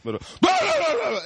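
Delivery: imitating a rambling stranger, pitch jumping; lightly voiced muttering train stranger; mumbling crazy man. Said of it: "walk around and be like".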